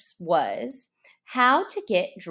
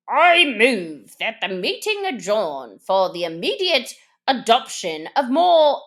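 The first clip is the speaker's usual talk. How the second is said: solemn Dodo; 6 dB louder than usual. Acted. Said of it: "said the Dodo solemnly".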